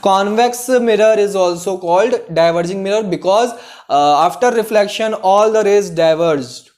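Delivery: slow, word-by-word dictation pace. Shown as a demonstration. Teacher dictating a definition for students to note, slowly. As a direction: spell it out slowly for students to copy. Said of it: "Note it down बच्चों".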